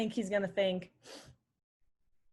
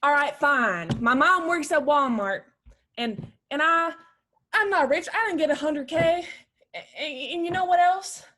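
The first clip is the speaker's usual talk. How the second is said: upset outburst; 3 semitones higher, 5 dB louder than usual. Acted. Daughter confesses her mom works at Walmart, tearful outburst. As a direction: blurt out the truth near tears.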